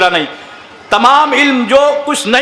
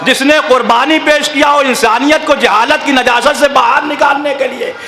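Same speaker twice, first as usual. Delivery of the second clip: impassioned preaching shout; 2 semitones higher than usual. Real, not acted. Preacher rousing the mourners about Husain's sacrifice, shouting. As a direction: hammer each phrase home to the hall.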